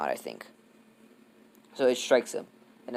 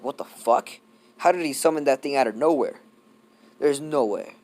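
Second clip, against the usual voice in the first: higher, louder retold disbelief; mildly shocked; 3 semitones higher, 6 dB louder than usual. All Might seeing the golem appear, mildly shocked. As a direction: imitate someone stunned, lightly hammed up.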